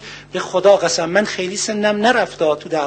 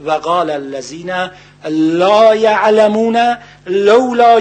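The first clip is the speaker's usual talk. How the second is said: slow, chanted Arabic verse recitation; measured sacred recitation in Arabic; Quranic recitation; slower than usual. Acted. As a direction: intone the verses slowly like a reciter.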